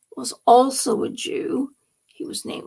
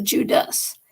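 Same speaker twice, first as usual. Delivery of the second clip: Judas with weight on its second syllable; stress on second syllable. Shown as a demonstration. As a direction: lean on the DAS in Judas. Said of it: "the second syllable of D A S".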